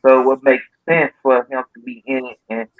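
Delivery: far from the mic; off-mic, faint and distant. Real, not acted. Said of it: "You sound a little far away though".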